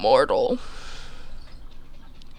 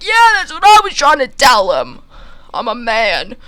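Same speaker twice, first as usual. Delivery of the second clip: high, louder exasperated squeak; squeaky protest; 9 semitones higher, 8 dB louder than usual. Retold or imitated. Narrator agreeing with the farmer's wife, squeaky and exasperated. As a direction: insist you've been saying it all along.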